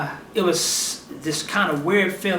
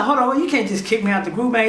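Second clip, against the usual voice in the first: retold protest, a little higher; indignant protest; 4 semitones higher than usual. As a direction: push back in mild disbelief. Acted protest at being kicked out.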